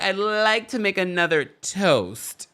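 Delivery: slow, drawn-out tipsy toast; a light mock of a tipsy guest. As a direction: sound a little lit and grand. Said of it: "was she lit".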